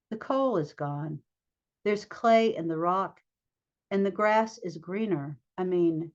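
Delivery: measured poetry reading with pauses between phrases; poem reading. Acted. Poet reading a poem about dirt to an audience, measured poem reading. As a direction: read it as verse, setting each phrase apart.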